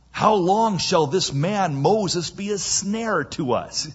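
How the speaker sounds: exasperated advisor's protest; exasperated plea. Acted. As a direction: plead with mounting impatience. Servants plead with Pharaoh.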